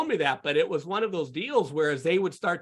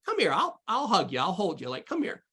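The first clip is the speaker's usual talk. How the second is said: much higher, soothing parent voice; comforting a child; 5 semitones higher than usual. Retold or imitated. Father soothing his upset son, in a high tender coaxing voice. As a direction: coax an upset little son in. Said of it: "what I would do with my sons".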